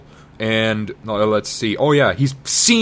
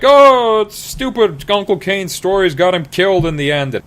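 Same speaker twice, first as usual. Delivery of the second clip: high, loud whiny falsetto; a hammed-up high whining girl; bratty Leia; 9 semitones higher, 4 dB louder than usual. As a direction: complain in a squeaky girl voice. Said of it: "Leia's like".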